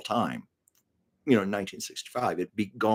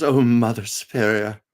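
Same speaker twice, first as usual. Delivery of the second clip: Maria pleading; 5 semitones higher, 5 dB louder than usual. Retold or imitated. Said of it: "and she goes".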